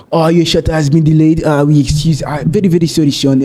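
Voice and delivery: imitated apologetic French accent. Host imitates French staff over delayed shuttle, French accent. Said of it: "I was dealing with a lot of French".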